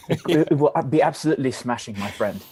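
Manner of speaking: quick mock-British banter; hammed-up British chap; British accent. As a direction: put on a jolly British accent. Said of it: "our finest British accents".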